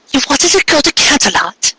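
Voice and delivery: high, startled exclamation; exclaiming. A narrator's reading. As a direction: blurt it out in shock. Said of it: "She exclaimed".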